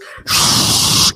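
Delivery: long steady "shhh" of white noise; white noise hiss. Retold or imitated. Boyfriend making sleep noise over Skype, hissed white noise. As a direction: make white noise with your mouth. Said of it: "yeah, it just goes".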